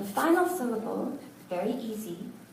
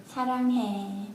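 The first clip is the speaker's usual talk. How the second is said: lightly acted soap-opera "사랑해" in a female style; a hint of a TV-drama woman confessing love; soap-opera female version; faster than usual. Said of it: "That's the female version".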